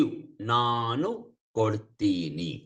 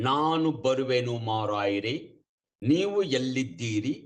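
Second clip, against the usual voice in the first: Mangalore newsreader Kannada; 3 semitones lower, much faster than usual. Retold or imitated. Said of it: "they talk as if they are reading like a news".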